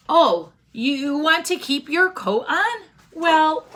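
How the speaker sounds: high, bright welcome to the rabbi; cheery old granny. Acted. Old granny greeting the rabbi at her door, high and delighted.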